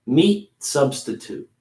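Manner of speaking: slow "Meat substitute" with a light T; slow model, light T; small T. Shown as a demonstration. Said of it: "Making that T".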